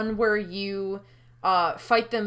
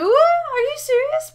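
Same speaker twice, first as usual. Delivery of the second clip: slow, high, loud incredulous cry; outraged disbelief; 9 dB louder, slower than usual. Acted. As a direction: stretch it out, can't believe it. Outraged at the betrayal.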